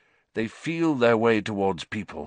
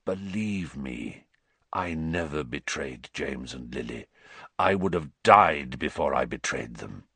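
croaked; 8 semitones lower, 4 dB quieter than usual. A narrator's reading. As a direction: croak it, earnest and pleading. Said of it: "croaked Black".

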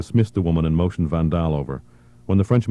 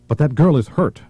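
pleading delegate; 9 semitones higher, 4 dB louder than usual. Acted. Delegate protests hostage girl's injury.

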